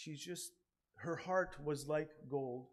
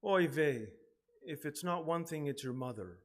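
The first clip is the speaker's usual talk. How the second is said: mock exasperated sigh of a grown child, louder; exasperated oy vey; 3 semitones higher, 7 dB louder than usual. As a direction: throw up your hands, half-joking. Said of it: "you think to yourself".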